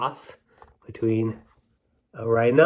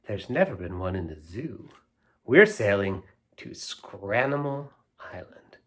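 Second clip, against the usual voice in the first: put-on lilting read-aloud verse for kids; sing-song children's poem reading; slower than usual. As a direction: recite it like a storybook rhyme.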